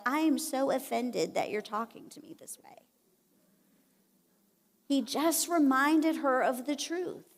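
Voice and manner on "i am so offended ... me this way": whispered mock huffy offense; mock offended. Jesus imagined as touchy Gen Z, whispered mock offense. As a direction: breathe it out like a pouty diva. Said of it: "get all, like, Gen Z on her".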